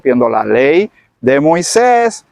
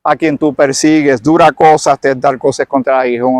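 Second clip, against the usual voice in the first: lightly voiced Jesus. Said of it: "Y él le contesta".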